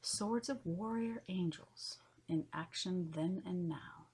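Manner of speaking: measured poem recital in spaced phrases; poetry reading. Acted. Host reading esoteric poetry to listeners, measured poetry reading. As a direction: read each line of verse with pauses between. Reads her poem aloud.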